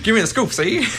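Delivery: put-on high, laughing old-time gangster; hammed-up 1930s mobster demanding a scoop; gangster reporter voice. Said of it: "every time you put on that voice".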